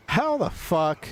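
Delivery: slow, drawn-out how the fuck; stunned disbelief. Real, not acted. Reacting to a car flipped on the beach, slow stunned disbelief. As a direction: stretch it out in disbelief.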